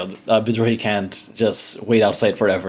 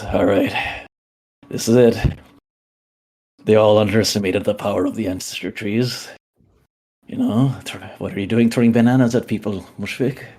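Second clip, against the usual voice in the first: gloating, mocking villain speech, pitched up at the taunts; villain monologue. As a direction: taunt Mushfik like a smug villain. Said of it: "he goes".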